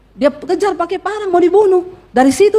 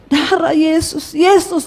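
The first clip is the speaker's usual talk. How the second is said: struggling cry; slower than usual. Acted. Dying husband finally calls on Jesus, acted struggling cry. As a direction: force the name out slowly. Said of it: "akhirnya suaminya bisa berteriak".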